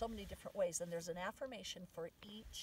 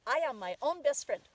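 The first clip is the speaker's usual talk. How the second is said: loud, higher, eager recital; kids reciting affirmation; 6 semitones higher, 11 dB louder than usual. Retold or imitated. Kids reciting for Grandpa Don's quarter, loud and eager. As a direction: sing out like a child earning a reward. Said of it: "the kids would say".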